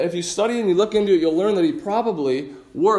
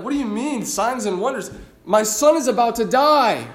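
desperate plea; 4 semitones higher than usual. Retold or imitated. Father begging Jesus to come heal his dying son, desperate and raised. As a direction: beg like your son's life depends on it. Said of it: "the desperation that this man must be feeling".

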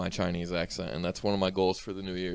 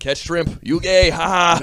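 mock hibachi chef; 9 semitones higher, 9 dB louder than usual.

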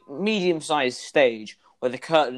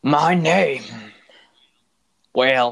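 whispering; 7 dB louder, much slower than usual. Acted. NPC answers in a whisper.

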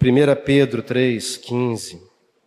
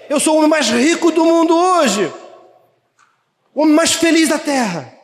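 much higher, near shouting, joyful; fired-up testimony; 9 semitones higher than usual. Acted. Preacher plays a believer on fire, joyfully near shouting.

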